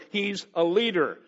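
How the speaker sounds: "leader" picked out with firm emphasis; deliberate weight on the word "leader"; stress on leader. Real, not acted. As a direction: lean on "leader" to drive it home. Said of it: "I want to emphasize the word there".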